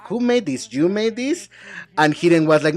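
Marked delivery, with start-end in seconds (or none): 0.1-1.5 imitating Regina. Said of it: "she asked Hidden, like".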